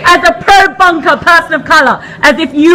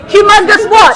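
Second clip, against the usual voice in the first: raised, insistent question; pressing demand. Real, not acted. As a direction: push him for the rest of the name.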